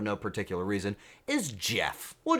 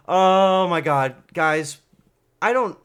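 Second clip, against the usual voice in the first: excited gasp; 6 semitones higher, 8 dB louder, slower than usual. Real, not acted. Renewed excitement at viewer.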